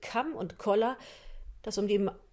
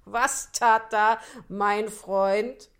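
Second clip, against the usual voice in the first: sly fox; 5 dB louder, slower than usual. Acted. Fox voiced by narrator.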